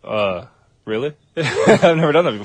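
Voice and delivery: laughing while answering. Real, not acted. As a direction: laugh through the reply. Laughing at joke.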